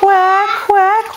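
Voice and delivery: duck quack. Shown as a demonstration. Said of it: "What does a duck sound like?".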